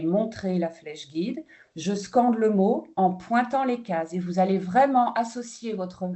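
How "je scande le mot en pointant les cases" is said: slow scanning demo. Shown as a demonstration. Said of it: "vous allez parler lentement".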